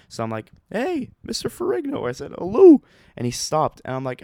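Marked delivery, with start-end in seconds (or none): 0.7-2.8 high, loud call to get his attention; high-pitched shout of Hello across the room. Retold or imitated. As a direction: hail him before he walks off. Calling out to the star leaving.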